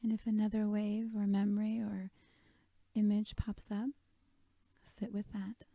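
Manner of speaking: gentle meditation guide with long pauses; guided meditation. Real, not acted. Leads a guided meditation on sadness.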